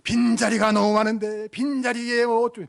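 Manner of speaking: mock prayer leader's drawn-out intoning; imitated public prayer. Representative praying to God about empty seats, mock prayer intoning. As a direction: imitate a plaintive prayer, stretching the words on one level note. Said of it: "꼭 그렇게 대표 기도하면".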